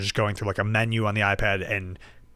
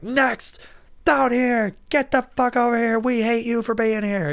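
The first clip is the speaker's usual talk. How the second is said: high, loud imitation of yelling staff; mock yelling; 13 semitones higher, 3 dB louder, slower than usual. Dispensary staff yelling at people in the line, mock shouting. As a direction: yell it in a high, hammed-up voice. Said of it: "they're, like, yelling at people".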